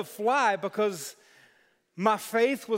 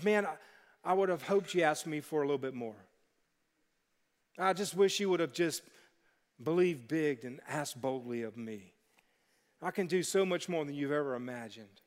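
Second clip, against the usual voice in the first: gently disappointed God; 6 semitones lower, 6 dB quieter than usual. Retold or imitated. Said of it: "he probably thinks".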